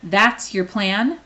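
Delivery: unimpressed bodyguard asks flatly. Acted. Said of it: "Bastille asked flatly".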